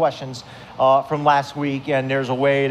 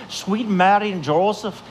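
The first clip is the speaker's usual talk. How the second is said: put-on Irish accent, words at back; 3 semitones higher than usual. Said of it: "they keep the words at the back of their mouth".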